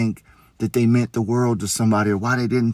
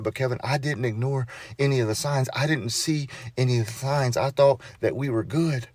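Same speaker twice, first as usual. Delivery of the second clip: higher-pitched, pleading retelling of her distress; distraught widow, retold; 5 semitones higher, 4 dB quieter than usual. Grieving widow telling Kevin she missed the signs, retold distressed. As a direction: retell her anguish with rising pitch, no sobbing. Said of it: "she's got tears streaming down her face".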